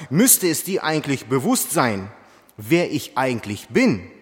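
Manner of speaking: forceful preaching. Real, not acted. Forceful preaching of Jesus' words.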